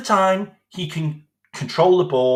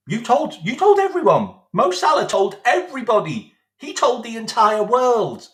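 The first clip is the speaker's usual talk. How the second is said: higher, louder exasperated accusation; exasperated higher rant; 5 semitones higher, 4 dB louder than usual. Real, not acted. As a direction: hammer home the blame, exasperated. Ranting at the manager.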